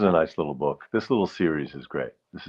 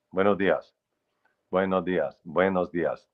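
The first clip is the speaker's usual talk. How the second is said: straight Spanish rhythm. Shown as a demonstration. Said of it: "Spanish is, is spoken in a straight rhythm".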